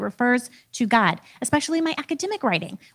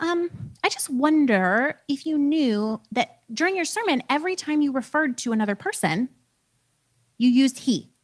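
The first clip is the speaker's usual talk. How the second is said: gentle professor; 2 semitones higher than usual. Retold or imitated. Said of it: "And then very gently".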